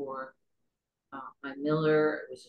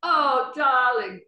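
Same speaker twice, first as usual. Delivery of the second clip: high, loud affected darling; posh darling; 8 semitones higher, 8 dB louder, much slower than usual. Retold or imitated. Studio 54 crowd greeting a guest, high and loud. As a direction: gush it like a society hostess. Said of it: "They go".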